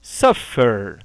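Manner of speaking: SUFFER with SUF strong, falling low on FER; stress on first syllable. Shown as a demonstration. Teacher giving a new example, first syllable stressed in SUFFER. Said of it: "A tônica está no".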